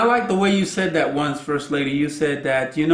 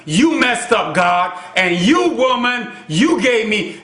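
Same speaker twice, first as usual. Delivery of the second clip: Adam's outburst. Retold or imitated. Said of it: "He says".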